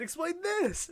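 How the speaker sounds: high, loud mock-outraged demand; dean losing patience. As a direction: yell it like a fed-up dean. Dean's demand escalates absurdly.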